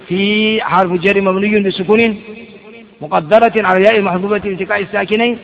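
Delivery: slow recitation. Shown as a demonstration. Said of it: "ولا تقول الفاء كما يقول بعض الطلاب".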